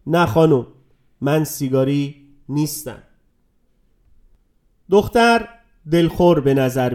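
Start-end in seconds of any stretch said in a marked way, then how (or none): 0.1-3.0 a lightly voiced grumpy no, curt; grumbling at the girl who offers a cigarette, mildly grumpy; grumpy refusal. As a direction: turn her down with a mild sulk. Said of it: "او با کجخلقی گفت".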